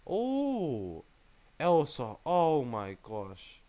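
yelp, then groan out the words; startled dismay. Real, not acted. Player spotting Elsa as opponent, dismayed.

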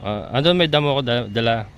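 ordinary talk

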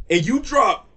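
high, slow, incredulous; can't believe you dropped this; shocked betrayed fan; outraged disbelief. Real, not acted. Outraged at the album.

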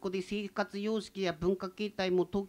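put-on shy greeting in Tsugaru-accented standard Japanese; nervous new student's introduction.

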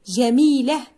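جميلة cut before the t, ending in h; final ta dropped. Shown as a demonstration. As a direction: say جميلة as jamiilah. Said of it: "نحذف الصوت الأخير". (نطق جميلة بحذف التاء: جميله)

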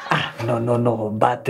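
robot voice. Acted. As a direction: speak like a stiff robot. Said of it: "stop talking like a robot".

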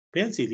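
"Pencil" as PEN-seel, with a clear Spanish i; school-taught mispronunciation. Shown as a demonstration. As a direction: read "Pencil" just as spelled, full i at the end. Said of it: "me enseñaron que era pencil".

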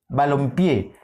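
balompié with the last syllable PIÉ made strongest; stress on PIÉ. Shown as a demonstration. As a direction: land firmly on PIÉ in balompié. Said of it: "Suena más pie". (balompié, cargando la voz en pié)

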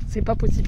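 lisped s in "C'est pas possible", s said like th; lisping. Real, not acted. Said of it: "je zozote toujours".

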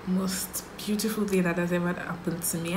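soft whisper of wonder. Real, not acted. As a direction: hush it like something precious. Tender moment about being mom.

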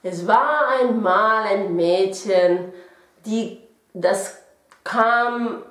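«Es war einmal» muy lento, como leyendo a niños; tono de cuento. Shown as a demonstration. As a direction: narra despacio, como un cuento infantil. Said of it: "se suele utilizar mucho en los cuentos infantiles". (voz de cuento para niños, lenta)

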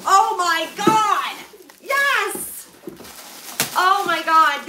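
loud, high burst of delight at the gift; excited squeal. Real, not acted. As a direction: shriek with real joy as the box opens. Opens a surprise donation box.

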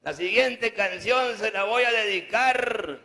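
loud, high announcement to the crowd; loud mock dedication; announcer shout. Real, not acted. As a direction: call it out like a stage announcer.

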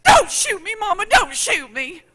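put-on high, loud, crying child's plea; frightened child. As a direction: beg like a scared little boy. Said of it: "And he goes".

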